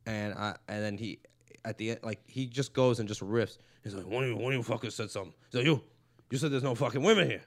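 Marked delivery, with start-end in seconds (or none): 4.1-7.4 lightly voiced Joey Diaz riffing at the crowd; a hint of Diaz working the room, fast; comic riffing on a heckled open-micer, lightly imitated; Joey Diaz impression. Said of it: "That's a good impression".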